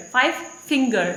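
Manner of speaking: "five finger" with finger carrying the stress. Shown as a demonstration. Teacher repeating the example for students, stress on finger. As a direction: lean on finger, not five. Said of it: "stress is on the finger".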